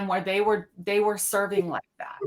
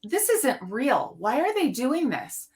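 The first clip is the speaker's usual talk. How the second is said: lightly mocking a speaker's course-taught voice; mock disbelief; 3 semitones higher than usual. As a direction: roll your eyes at the whole act. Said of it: "it was like".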